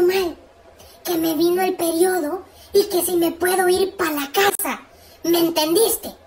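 stern, deliberate instructions; mildly cross. Acted. Cross sister sends brother to principal, stern. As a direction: lay it out firmly, piece by piece. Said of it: "Ya con cara de mala me dice ella".

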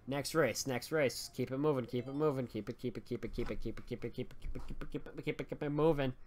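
quiet, fast repeated chant; rapid-fire muttering. Real, not acted. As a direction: rattle it off softly like a loop. Urging game to next race.

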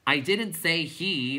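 exasperated scream. A narrator's reading. Bastian correcting the clowns, exasperated loud protest. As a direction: shout it slowly, half fuming. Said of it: "Bastian screamed, half fuming, half laughing".

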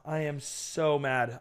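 sulking and deflated; quiet frustration. Real, not acted. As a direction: let the anger simmer under the breath.

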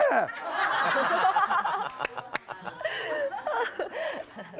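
high laugh. Real, not acted. Laughing at his own outburst.

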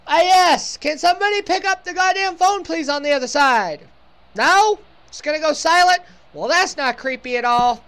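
loud, hammed-up British accent; put-on British accent. Asking somebody to pick up the phone, mock British accent. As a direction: call down the line in mock British. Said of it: "this is my British accent".

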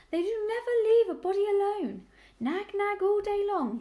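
high, loud grumbling sheep; hoarse, complaining. A narrator's reading. Old ewe grumbling at the wolves, hoarse and complaining. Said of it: "a hoarse, complaining voice".

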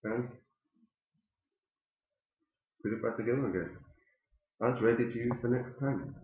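talking around pipe stem; clenched teeth speech; pipe in mouth. Real, not acted. Seen 5: Pipe stem clenched between teeth throughout the labelled words.

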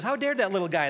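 furious at being insulted; loud, indignant outburst; outraged. Acted. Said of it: "He goes".

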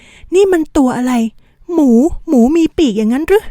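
high, loud exclamation of disbelief; startled. A narrator's reading. Character staring at a winged pig, startled. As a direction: blurt it out in astonished questions. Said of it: "ด้วยความตกใจ".

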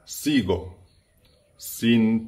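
slow careful lyric read. Shown as a demonstration. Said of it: "teaching song lyric".

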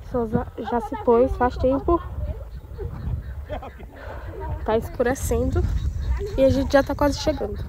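talking around a lollipop; words slurred by candy in mouth; sucking a lollipop. Real, not acted. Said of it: "Eu tô falando assim porque eu tô com pirulito na boca". (falando com pirulito na boca)

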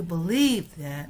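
弱读that; weak that. Shown as a demonstration. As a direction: stress "believe", reduce "that" to a light unstressed syllable. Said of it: "那个that弱读".

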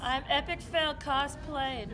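projected. Real, not acted. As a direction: project it out to the room. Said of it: "project your voice".

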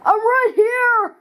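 high, slow, drawn-out shout; surprise jump-out. Acted. Doc springing out on the boys, high and drawn out. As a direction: pop out and spook them.

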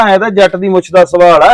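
a touch of mimicked swagger; imitated needling boast. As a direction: quote his jibes, voice lifted. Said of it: "ਲਾ ਲਾ ਕੇ ਗੱਲਾਂ ਕਰੇ".

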